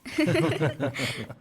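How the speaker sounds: chuckle. Acted. Laughs before family chat.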